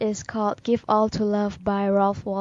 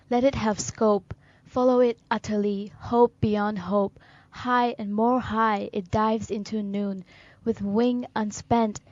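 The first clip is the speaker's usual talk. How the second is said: short, separated lines of declaimed verse; poem recitation. Acted. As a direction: recite it firmly, phrase by phrase.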